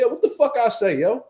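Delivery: re-enacted irritated outburst. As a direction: pitch it up, demanding an answer. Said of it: "once I got the".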